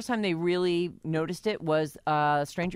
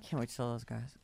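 hushed, lower aside; eager inner thought; 5 semitones lower, 10 dB quieter than usual. Retold or imitated. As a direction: murmur it as a private thought. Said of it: "you start to save things up. Like".

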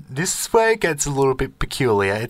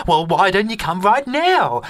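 a higher, louder beckoning voice from the paper; newspaper face voice; 6 semitones higher, 3 dB louder than usual. Retold or imitated. Face in the newspaper inviting the dreamer, higher and louder. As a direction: lure him in, calling out a bit louder and higher. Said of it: "this face pops out of the newspaper and goes".

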